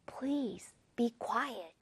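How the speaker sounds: soft, polite request. Shown as a demonstration. Teacher showing how please softens the order, soft and polite. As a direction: gently ask for quiet. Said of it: "조금 더 부드러운 뉘앙스를 주죠".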